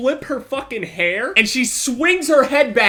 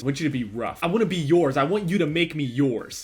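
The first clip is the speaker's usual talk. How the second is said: a low, softer, seductive imitation of her; low sultry ask; 6 semitones lower, 3 dB quieter than usual.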